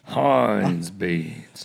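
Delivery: drawn-out mock British pitch; mock British accent. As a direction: stretch it out in fake British. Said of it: "watching us do our impressions".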